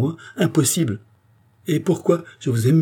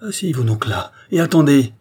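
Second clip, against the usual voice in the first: loud, raised, forceful tirade; indignant rebuke; 4 semitones higher, 7 dB louder than usual. A narrator's reading. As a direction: build accusations to a commanding finish. Charny rebukes the queen, quarrel.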